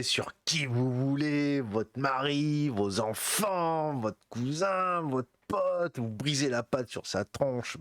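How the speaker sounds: drawn-out, mounting list, pitch climbing; getting carried away. Real, not acted. Podcaster riffing on who gets the pastry, getting carried away. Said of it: "je m'emporte un peu".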